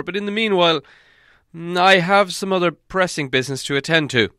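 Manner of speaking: put-on high, loud and formal old wizard; Gandalf. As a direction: give a solemn ceremonial reply. Wizard addresses the party.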